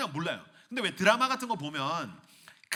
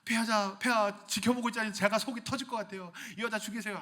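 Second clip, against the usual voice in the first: exasperated guard; 6 semitones higher than usual. Acted. Ninja pleading.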